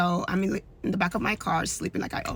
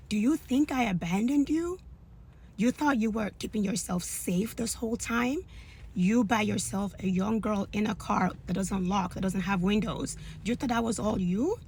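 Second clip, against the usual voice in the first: chastising God; 3 semitones higher than usual. Retold or imitated. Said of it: "he's chastising me".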